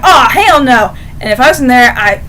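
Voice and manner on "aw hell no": louder indignant protest at normal pace; mock outrage. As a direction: bark it like a fan who won't have it. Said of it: "literally going".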